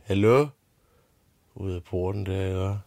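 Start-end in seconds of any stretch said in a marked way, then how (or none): 0.0-0.5 high, loud call toward the gate. Retold or imitated. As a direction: shout out at the door. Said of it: "råbte hun". (dronningen råber højt ud af porten)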